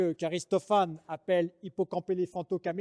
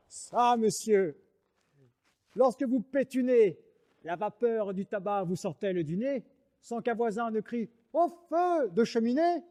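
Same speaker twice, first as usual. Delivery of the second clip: truculent; 4 semitones higher than usual. Acted.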